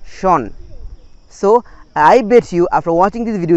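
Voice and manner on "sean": "Sean" as a single syllable, "shon"; correct ending demo. Shown as a demonstration. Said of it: "will be changed to".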